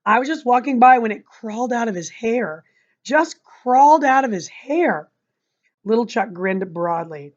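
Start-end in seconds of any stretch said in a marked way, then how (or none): 0.0-5.1 desperate. Acted. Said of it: "said desperately".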